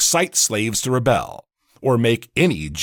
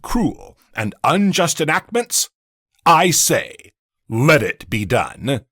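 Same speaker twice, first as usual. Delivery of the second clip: impassioned climax; 6 semitones higher, 4 dB louder, slower than usual. Acted. Climax of a courtroom oration.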